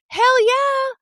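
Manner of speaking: high-pitched, drawn-out hell yeah; acted excitement. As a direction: squeal it in mock delight. Acts out delight at ski invitation.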